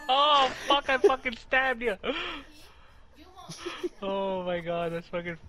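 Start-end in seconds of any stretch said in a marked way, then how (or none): 0.0-2.0 laughing. Real, not acted. Laughing after stabbing teammate.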